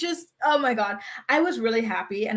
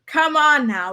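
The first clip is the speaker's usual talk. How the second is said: higher and louder, exasperated; 4 semitones higher, 5 dB louder, slower than usual. Real, not acted. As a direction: push the repeat up in disbelief.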